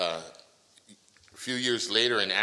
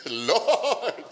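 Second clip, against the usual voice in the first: loud cry; 9 semitones higher, 9 dB louder than usual. Shown as a demonstration. Interpreter echoes the preacher's loud cry to God. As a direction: Lord called out high and loud, breaking into a laugh. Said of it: "大声です。".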